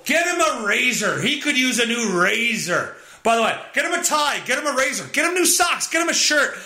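a hint of a ditzy shopper rattling off gift ideas; parroting the clueless gift-givers; mock society voice. Mocking what society says about Dad.

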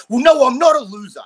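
defiant retort. Retold or imitated. Motivated man snapping back at being called a loser, loud and indignant. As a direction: throw the insult back, offended. Defiant inner reply to insult.

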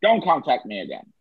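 mock Connery telling him off; Scottish Connery voice dismissing the podcast; Sean Connery impression. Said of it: "So that was Sean Connery".

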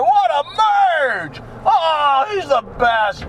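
mock praise.

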